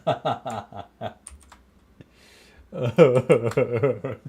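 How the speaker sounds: slow, drawn out through laughter; laughing tears. Real, not acted. Telling chat the video made him cry, slow and laughing. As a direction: stretch it out while laughing. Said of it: "I'm crying so much".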